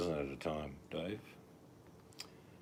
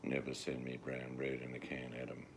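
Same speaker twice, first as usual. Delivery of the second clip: Liam Neeson impression; 3 semitones lower, 4 dB quieter than usual. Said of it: "Liam Neeson line".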